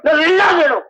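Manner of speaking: crying out in mock despair; wailing curse. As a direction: wail it like a cursing mother. (அழுது கத்தும் சாபம்)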